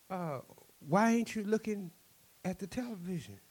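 high-pitched puzzled question; baffled trader. Acted. Trader questioning the chief about his gift, baffled. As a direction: ask it high, in acted disbelief.

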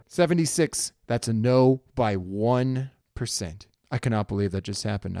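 high, loud dice reaction; excited disbelief. Real, not acted. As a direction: cry out at a near miss.

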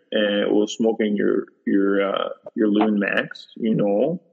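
mock Midwest pitchman voice; Minnesota accent. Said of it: "Was that a good accent?".

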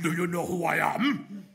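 lightly voiced haughty TV Pilate asking; TV Pilate impression. Preacher mimics how Pilate said it on TV, lightly. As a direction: echo the Netflix actor's proud question. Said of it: "That's how he said it".

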